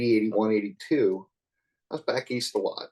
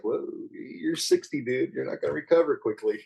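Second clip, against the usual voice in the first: mock self-warning; 4 semitones higher than usual. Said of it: "And I was like".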